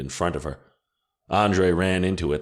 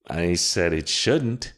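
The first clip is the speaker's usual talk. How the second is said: slow, with "shouldn't" pressed hard; emphasis on shouldn't; slower than usual. A narrator's reading. Witch corrects an angry Andre, stressing "shouldn't" slowly. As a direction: lean into "shouldn't" to correct him. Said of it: "She put extra emphasis on the word".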